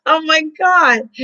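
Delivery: high, slow, amused oh my god; laughing surprise. Real, not acted. Reading a friend's embarrassing story, high and slow in amused disbelief. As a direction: gasp it out, caught between shock and a laugh.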